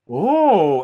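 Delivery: loud, swooping "oh" of wonder; awed gasp. Acted. Everyone seeing the lit tree, awed gasp. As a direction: gasp in delight like a crowd. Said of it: "everyone gasps".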